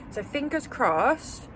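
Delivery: confident. Real, not acted. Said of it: "she says, very confidently".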